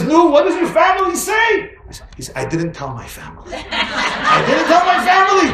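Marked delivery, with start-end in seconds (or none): 0.0-1.7 high, loud excited question; eager doctor. Acted. 3.5-5.5 high, loud and slow through laughter; laughing punchline. Shown as a demonstration. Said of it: "repeated punchline".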